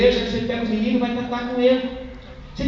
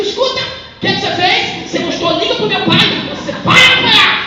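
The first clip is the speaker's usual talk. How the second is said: higher, louder mock-stern child; little girl scolding doll; 8 semitones higher, 7 dB louder than usual. Father voicing his daughter scolding her doll, higher mock-stern child. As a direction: play a small girl telling off her doll.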